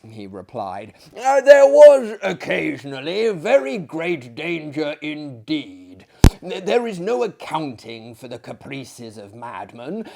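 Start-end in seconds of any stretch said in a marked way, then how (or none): 1.2-6.0 shouted reply. Acted. Shouting reply over the din.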